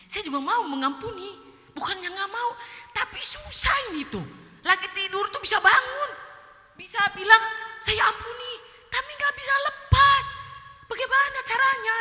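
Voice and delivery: high-pitched protest building to shouting; anguished protest. Retold or imitated. Speaker telling a friend forgiving is impossible, anguished protest. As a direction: re-enact desperate pleading, rising to a loud cry.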